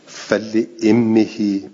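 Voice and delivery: فل امهی recited slowly, hamza as "i"; slow, careful recitation; hamza with kasra. Shown as a demonstration. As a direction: draw out امهی with a kasra vowel. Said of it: "به کسر الحمزته".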